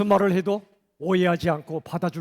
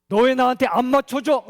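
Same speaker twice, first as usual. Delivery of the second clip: higher, louder complaining yell; acting out a selfish shout; mock yell; 5 semitones higher, 5 dB louder than usual. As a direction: demand it like a frustrated partner. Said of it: "라고 소리치죠".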